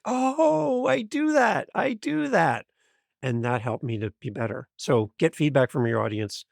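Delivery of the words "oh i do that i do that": high, startled "I do that"; a lightly comic high aha; mock realization. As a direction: play the sudden embarrassed discovery. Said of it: "And I'm like".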